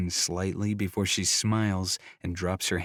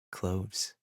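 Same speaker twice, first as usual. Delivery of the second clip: husky voice; 7 dB quieter than usual. A narrator's reading. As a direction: breathe it huskily. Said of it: "she says in a husky voice".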